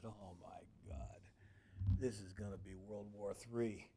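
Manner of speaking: very soft, slow muttered alarm; mock horror at the double-booked kitchen; hushed dread. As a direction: say it under your breath as if disaster is coming. Dread on seeing both groups.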